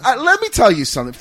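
Hulk Hogan impression.

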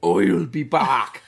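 slow, loud botched Terminator line, laughing; a failed Arnold that drifts Irish; bad Schwarzenegger. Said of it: "Why is he from Ireland?".

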